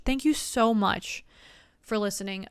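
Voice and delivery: slow, heartfelt thank you; slow sincere thanks. Real, not acted. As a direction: draw it out with sincerity.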